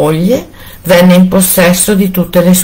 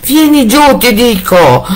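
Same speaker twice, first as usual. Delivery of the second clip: husband roars at his wife; shouting at full lungs; 8 semitones higher than usual. A narrator's reading. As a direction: bellow the order downstairs. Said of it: "gridava il marito a pieni polmoni".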